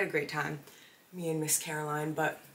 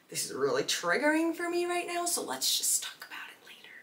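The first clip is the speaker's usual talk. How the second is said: mock plea; 12 semitones higher than usual. Imagined plea to audience.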